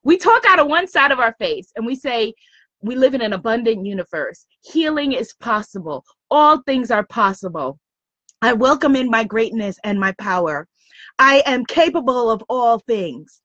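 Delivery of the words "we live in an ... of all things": measured, slightly softened mantra delivery; lightly performed affirmations with pauses between; affirmation recital. Acted. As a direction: recite it like a daily affirmation, line by line. Voicing positive affirmations, set apart.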